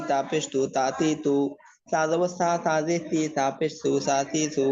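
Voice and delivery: rhythmic, even-toned letter-by-letter spelling drill; recitation drill. Shown as a demonstration. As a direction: chant out the letters evenly for learners to follow. Combined vowel spelling drill.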